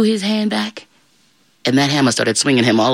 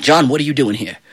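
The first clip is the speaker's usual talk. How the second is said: stern devil. Acted. Devil questions John at his gates.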